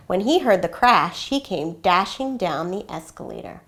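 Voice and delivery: gentle read-aloud storytelling voice; story narration. A narrator's reading. Reads picture book aloud.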